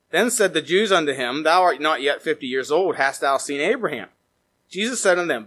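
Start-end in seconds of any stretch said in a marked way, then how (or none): none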